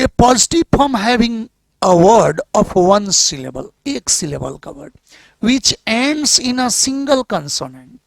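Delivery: reading the English rule aloud slowly and deliberately. Shown as a demonstration. Teacher reads the grammar rule to the class, slow and deliberate. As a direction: spell out the textbook rule word by word.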